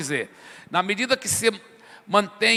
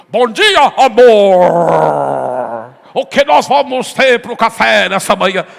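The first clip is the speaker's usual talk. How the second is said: much louder, drawn-out pompous husband voice; husband greets wife in the trembling prayer tone; mock solemn prayer voice; 12 dB louder, slower than usual. Husband answering wife in an over-solemn voice, very loud drawn out. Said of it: "você não acordou muito bem".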